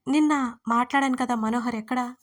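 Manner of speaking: ordinary delivery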